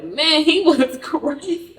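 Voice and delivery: high, loud, drawn-out laughing exclamation; laughing quote. Retold or imitated. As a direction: mimic an amused friend, cracking up. Friend's amused quote, laughing.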